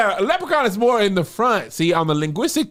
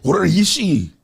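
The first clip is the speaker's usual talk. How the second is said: loud, doubtful stab at Scottish; badly faked Scottish version of a Batman line; attempted Scottish accent; 5 dB louder, slower than usual. Asking co-host if it passes, attempted Scottish accent. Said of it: "Was that Scottish?".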